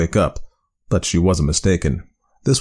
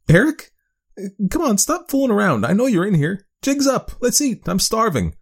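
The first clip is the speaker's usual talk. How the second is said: calling louder. Acted. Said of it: "she called out a little louder".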